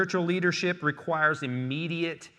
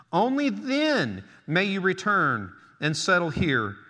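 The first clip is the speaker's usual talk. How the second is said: measured, emphatic Bible reading from the pulpit; scripture reading; 3 semitones higher, 3 dB louder than usual. Acted. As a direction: proclaim each command deliberately. Reads scripture aloud to congregation.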